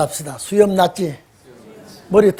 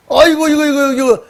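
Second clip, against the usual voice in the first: higher-pitched startled cry, mock panic; acted alarm; 5 semitones higher, 3 dB louder than usual. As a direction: play Moses shocked at his hand. Moses startled by his leprous hand. (깜짝 놀란 척하는 목소리)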